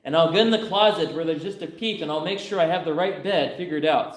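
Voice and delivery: a giddy daughter plotting, lightly voiced; scheming daughter. Daughter telling her dad her wild plan, lightly voiced and eager. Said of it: "He said".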